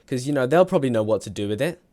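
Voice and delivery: high, loud, mock-virtuous lecture; imitating smug moralizing kids; mock preachy friends. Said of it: "they said".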